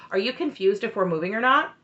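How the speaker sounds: imitating a condescending husband; mock condescending question, punched a little. Husband talking down to his wife about moving, condescending. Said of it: "Cody gets super condescending".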